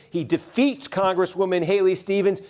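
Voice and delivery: upbeat on-air announcement; excited live call. Real, not acted. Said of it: "put on the serious newscaster voice".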